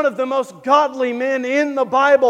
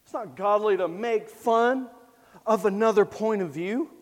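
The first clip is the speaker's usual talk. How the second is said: objecting listener; 4 semitones lower, 5 dB quieter than usual. Retold or imitated. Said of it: "You say".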